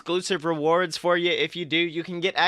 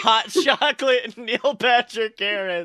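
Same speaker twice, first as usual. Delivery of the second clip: exasperated; 5 semitones higher, 3 dB louder than usual. Real, not acted. Loud exasperated finish.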